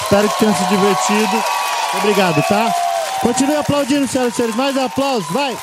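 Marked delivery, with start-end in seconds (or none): 3.2-5.6 higher, shouted call to the crowd; calling for applause. Real, not acted. Comedian urging the audience to keep clapping, shouting. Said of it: "asking audience for applause".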